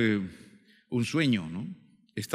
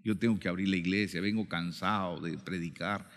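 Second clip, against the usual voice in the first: low, subdued confession of defeat; weary and quiet, trailing down as if giving up; retold discouragement, low and soft; dejected; 5 semitones lower, 4 dB quieter than usual. Discouraged pastor confiding he will quit.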